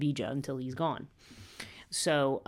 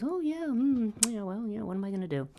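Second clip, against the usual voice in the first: much higher, airy mock innocence; mock innocent shrug; 7 semitones higher than usual. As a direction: play the goddess pretending helplessness. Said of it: "she just smiles and goes".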